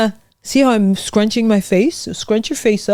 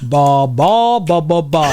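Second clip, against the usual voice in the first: low like talking; 5 semitones lower, slower than usual. Shown as a demonstration. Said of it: "Just like you're talking".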